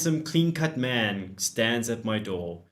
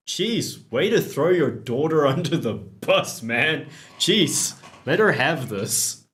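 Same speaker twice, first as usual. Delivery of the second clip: exasperated laughing jeez; 4 semitones higher, 6 dB louder than usual. Real, not acted. Teasing a dad's joke.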